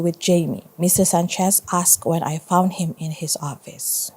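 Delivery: steady storytelling read to a class; story narration. A narrator's reading. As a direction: read it like a teacher sharing a chapter book.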